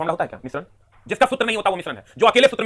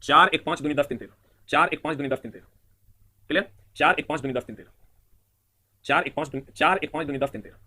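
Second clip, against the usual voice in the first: slow counting; 4 semitones lower than usual. Shown as a demonstration. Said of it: "फिर से देख लो".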